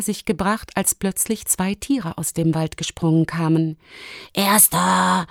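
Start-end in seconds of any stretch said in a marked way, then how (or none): 4.3-5.3 put-on lightly grunted boar-boy voice; contented grunt. A narrator's reading. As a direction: grunt it with satisfaction. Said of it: "grunzte Borste zufrieden". (zufrieden gegrunzt)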